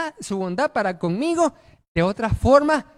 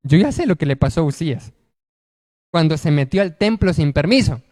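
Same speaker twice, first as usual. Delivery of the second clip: anxious worry; 3 semitones lower, 5 dB louder than usual. Acted. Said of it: "entonces él dijo".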